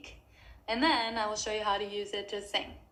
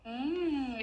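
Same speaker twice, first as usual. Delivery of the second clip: humming into a straw, higher; warm-up hum through the straw; short straw phonation hum; 4 semitones higher than usual. Shown as a demonstration. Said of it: "go back and forth with that".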